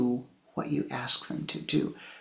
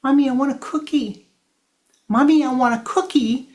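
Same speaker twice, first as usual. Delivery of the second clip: put-on louder, higher whining child; 9 semitones higher, 10 dB louder than usual. Child whining at mommy for a cookie.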